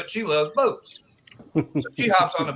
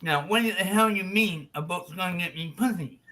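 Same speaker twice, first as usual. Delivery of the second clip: harelip friend. Acted. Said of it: "a friend who's a hair lip".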